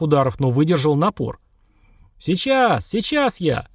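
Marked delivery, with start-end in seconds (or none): 2.2-3.7 called out high toward the door; doctor calling to the police at the door, shouting. A narrator's reading. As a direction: shout back to the men outside. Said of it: "крикнул зав. отделением".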